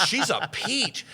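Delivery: Will Ferrell laughing about the wife; amused impression. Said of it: "He goes".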